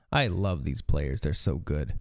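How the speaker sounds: sarcastic tone. Commenting on players in a clip being watched: sarcastic. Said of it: "Is that sarcasm?".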